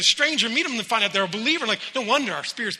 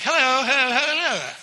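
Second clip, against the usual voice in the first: louder sing-song calling to a distracted child; 4 semitones higher, 4 dB louder than usual. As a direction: call them back to attention. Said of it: "You're like".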